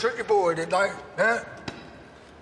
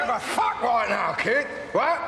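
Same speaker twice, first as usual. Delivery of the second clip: shouted retort. Acted. Heated quarrel, shouting back.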